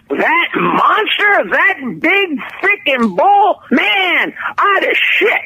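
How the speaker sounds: slow, crying shout at the thought of the bull; a stunned cowboy recalling the charging bull; awed cowboy. Acted. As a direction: drag it out like a shaken cowboy.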